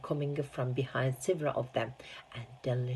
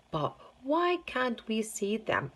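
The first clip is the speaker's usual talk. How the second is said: put-on spoiled girl; 8 semitones higher than usual. A narrator's reading. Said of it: "asked Veruca Salt".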